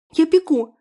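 high, loud eager cry; calling out. Acted. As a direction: call out while rushing in. Nurse calls out running.

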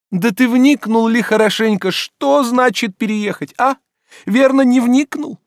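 high, loud reproachful scolding; indignant master. Acted. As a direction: scold the servant in wounded outrage. Oblomov lectures Zakhar.

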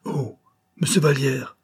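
put-on child's glad cry, pitch high; calling out a name in surprise; a boy spotting a visitor, delighted exclamation; surprised exclamation. A narrator's reading. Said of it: "Jeannot eut une exclamation".

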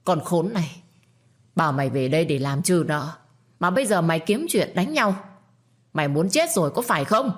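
seething. Acted. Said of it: "Bà ngấu nghiến".

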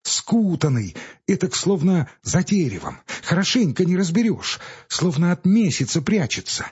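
lightly voiced boy telling a scary story; a hint of a hushed, eerie boy; boy's voice. A narrator's reading. Ilyusha tells a spooky tale.

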